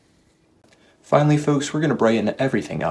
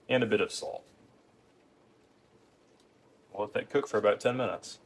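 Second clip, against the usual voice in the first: hushed tones; 8 dB quieter than usual. Acted. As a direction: keep it hushed. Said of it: "speaking in hushed tones".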